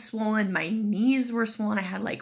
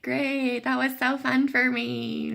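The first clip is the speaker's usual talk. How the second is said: slow, higher deadpan sarcasm; dry sarcasm; 5 semitones higher, slower than usual. Retold or imitated. Patient sarcastically thanking the nurse after the painful IV, drawn out. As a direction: drag it out with mock cheer.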